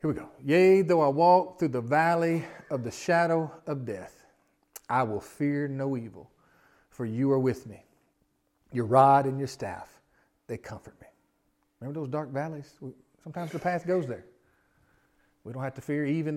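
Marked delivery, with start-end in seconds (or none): 0.4-11.1 very slow, pausing scripture reading. Shown as a demonstration. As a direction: read each phrase slowly with pauses. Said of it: "I wanna read 'em kinda slow".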